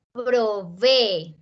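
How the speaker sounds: "Provee" drawn out in separate syllables; split syllables. Shown as a demonstration. Teacher showing the class strong vowels, syllable by syllable. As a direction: sound out "Provee" one syllable at a time. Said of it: "se abren en dos sílabas".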